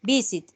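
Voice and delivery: "Visit" stressed on VIS, weak ending; unstressed last syllable. Shown as a demonstration. Teacher contrasting rules for students, "Visit" with no force at the end. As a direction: hit the first syllable of "Visit" only. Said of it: "no tiene la fuerza al final".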